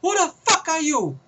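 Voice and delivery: radio henchman. Retold or imitated. Henchman on the radio calling Pace, worried.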